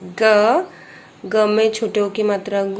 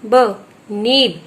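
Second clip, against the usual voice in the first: slow blending; much slower than usual. Shown as a demonstration. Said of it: "छोटे ई की मात्रा नी".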